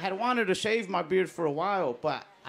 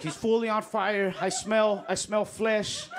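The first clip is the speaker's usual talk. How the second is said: higher, louder, slow earnest reporter read; news reporter; 5 semitones higher, 3 dB louder, slower than usual. Retold or imitated. CNN reporter describing the man on fire, dramatic report. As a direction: play a breathless TV newswoman. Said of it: "She was like".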